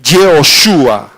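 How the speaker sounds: "Yehoshua" slow, drawn out to a falling end; Hebrew pronunciation demo. Shown as a demonstration. Preacher repeating where the name came from, "Yehoshua" deliberately pronounced. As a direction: sound out "Yehoshua" slowly, stressing SHU. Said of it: "del hebreo".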